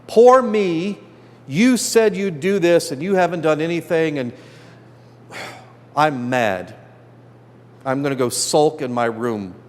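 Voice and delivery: mock self-pity, like a kid stomping off to sulk; whiny sulking child. Moses mocked complaining to God like a sulky child, whiny.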